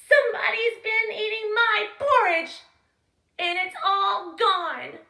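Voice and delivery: high, loud squeaky cub voice; little Baby Bear. Acted. Baby Bear finding his empty bowl, high squeak. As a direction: squeak it out like a tiny upset cub.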